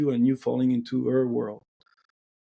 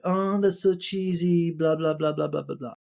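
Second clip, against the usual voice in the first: mocking her voice; 3 semitones higher than usual. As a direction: sneer out her complaint like a bored date. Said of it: "she was like".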